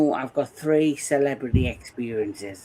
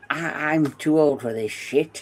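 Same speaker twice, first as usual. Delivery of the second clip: exasperated wail; 2 semitones higher than usual. Retold or imitated. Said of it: "he goes".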